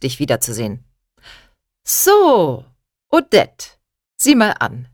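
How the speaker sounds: high, loud booming greeting; a jovial uncle calling out high and loud. Acted. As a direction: sweep in as the cheerful uncle with a loud, high hello. Uncle arrives, greets the ladies.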